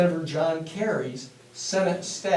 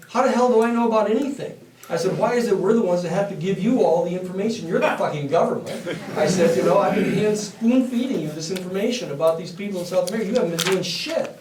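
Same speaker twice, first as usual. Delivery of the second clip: raised, fast and indignant, laughing a little; louder heated rant at the counsel; angry retort; 3 dB louder, faster than usual. Retold or imitated. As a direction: let him have it, incredulous and fed up.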